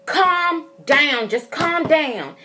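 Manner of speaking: calming order. Retold or imitated. Telling my sister to calm down, slow insistent order. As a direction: spell it out slowly, as retold to a panicker. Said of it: "telling my sister".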